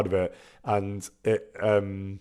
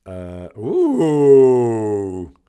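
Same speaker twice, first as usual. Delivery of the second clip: surprised ooh; 9 dB louder than usual. Real, not acted. Reacting to a dice roll.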